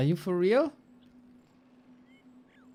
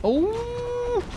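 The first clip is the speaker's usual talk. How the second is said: surprised. Real, not acted. Sudden game moment.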